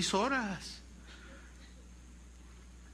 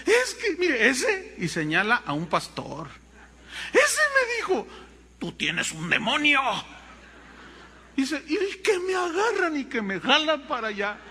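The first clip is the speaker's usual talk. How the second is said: put-on girl complaining; 6 semitones higher than usual. Girl's voice, laughing retell.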